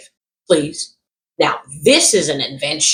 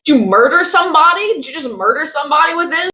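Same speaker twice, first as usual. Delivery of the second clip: mock alarmed yell; 11 semitones higher, faster than usual. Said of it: "I'm like".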